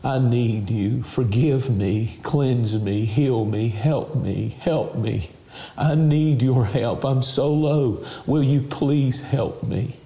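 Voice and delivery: slow, pleading prayer for viewers to repeat; led prayer. Shown as a demonstration. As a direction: pray it slowly, begging for help. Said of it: "Pray this prayer".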